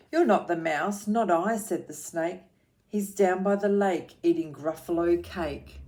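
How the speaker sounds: put-on rhythmic read-aloud for children; lilting picture-book reading; story narration.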